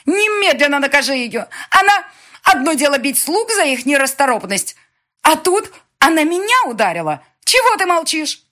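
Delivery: very high, loud demanding shriek. Acted. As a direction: keep squealing for punishment. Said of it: "продолжала верещать и Дема".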